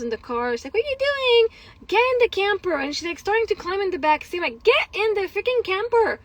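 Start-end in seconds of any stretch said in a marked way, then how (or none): 0.7-2.7 retold angry scolding. Mother catching child out by the camper, retold angry scolding. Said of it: "And I was pissed". 4.6-6.2 higher, exasperated parental command; retold angry order. Mother ordering child into the camper, retold angry order. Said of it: "And I was pissed".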